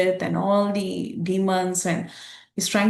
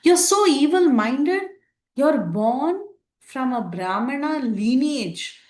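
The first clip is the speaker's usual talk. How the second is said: angry call-out; 6 semitones higher than usual. Retold or imitated. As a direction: hurl the accusation up high. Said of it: "he starts calling out to Indrajit".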